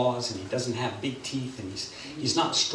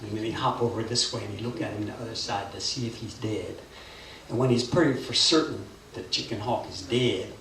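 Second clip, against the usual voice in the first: lower, unhurried tale voice; hushed storytelling; 3 semitones lower, 3 dB quieter than usual. A narrator's reading. Storyteller follows buzzard circling to the ground, subdued low narration. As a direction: let the tale settle as the bird circles.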